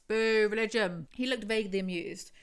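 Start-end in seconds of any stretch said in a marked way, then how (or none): 0.1-1.1 louder, drawn-out sarcastic boo; mock boo. Reviewer jeering the book's religion, hammed-up boo. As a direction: jeer it like a heckler. Sarcastic jeer after the cheer.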